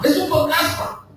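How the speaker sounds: frightened cry. A narrator's reading. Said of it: "gritaban de miedo".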